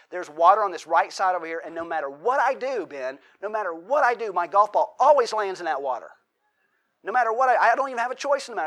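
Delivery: hamming up the ball that always finds the water; mock frustration. Mock complaint on golf course.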